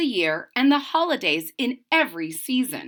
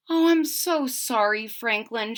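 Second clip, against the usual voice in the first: sorry mother; 3 semitones higher than usual. Acted. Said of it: "she finally said".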